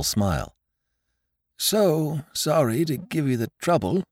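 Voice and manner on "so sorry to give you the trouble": put-on polite older host. Host smiles at guest.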